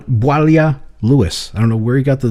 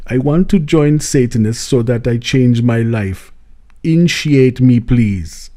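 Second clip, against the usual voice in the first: imitating an African accent; slower than usual. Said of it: "But if I do this, then it's him".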